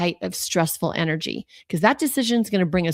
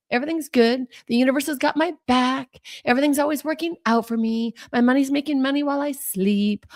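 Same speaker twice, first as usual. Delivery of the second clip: higher, confident affirmations; reciting money mantras, higher; upbeat affirmations; 7 semitones higher than usual. Retold or imitated. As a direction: declare the good news to yourself. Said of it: "All my wonderful mantras that I love".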